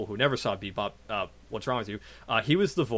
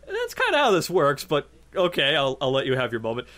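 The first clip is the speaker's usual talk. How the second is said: sarcastic inner voice; 2 semitones higher than usual. Retold or imitated. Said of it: "I'm thinking".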